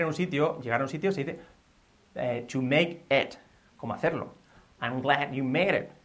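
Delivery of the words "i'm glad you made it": slow model. Shown as a demonstration. Example first modelled slowly.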